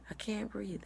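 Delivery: high, breathy whisper of "can't"; retold panic on "I can't breathe"; breathless panic. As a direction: gasp it out, scared. Panicking under anesthesia, can't breathe.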